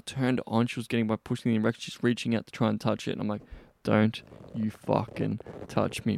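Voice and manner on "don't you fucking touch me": slow, teasing mock command; playfully forbidding. Man teasing a woman reaching for him, playfully stern. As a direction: draw out a playful warning. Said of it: "I'm saying it in, like, this, like, playful way".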